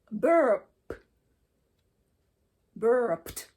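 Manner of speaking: "burped" ends in a sharp T, burpt. Shown as a demonstration. Teacher demonstrating the T ending for the class. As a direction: finish "burped" on a crisp T. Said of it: "because there's a P in it".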